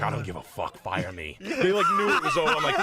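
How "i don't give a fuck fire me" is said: low, offhand mock defiance; not caring. Hungover salesman to his bosses, low careless dare. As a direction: drop the voice and shrug it off. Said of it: "I'm just like".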